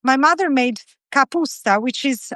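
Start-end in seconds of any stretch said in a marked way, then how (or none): 1.1-1.8 capusta with a Southern Italian accent. Real, not acted. Cook recalling her mother's dish, Southern Italian accent. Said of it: "said it with a Southern Italian".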